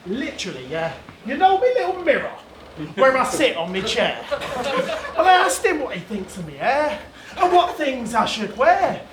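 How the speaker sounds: lightly imitated northern English girlfriend; mock northern English accent, chatty. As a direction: tell the gossip in a put-on northern accent. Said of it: "doing that bird's accent".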